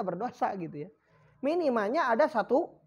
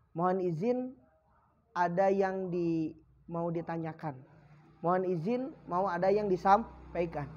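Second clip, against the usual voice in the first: measured, lower courteous phrasing; polite request; 4 semitones lower than usual. Shown as a demonstration. Teacher models how to put a question, politely and low. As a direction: ask leave to speak respectfully. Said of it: "jangan begitu".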